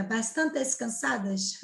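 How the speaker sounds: "Bastantes cansadas" asked slowly, as if it sounds odd; questioning the wrong "bastantes"; doubtful wrong form. Shown as a demonstration. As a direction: test how strange "Bastantes" sounds. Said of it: "Fica até estranho, né?".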